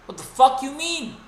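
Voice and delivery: half-shouted what do you mean; exasperated retold yell. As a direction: push it up in outrage. Retold argument with a friend.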